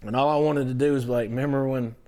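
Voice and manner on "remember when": loud, high, starstruck gushing fanboy; Chris Farley fanboy. Retold or imitated. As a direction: gush like Farley interviewing his idol. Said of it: "a Chris Farley moment".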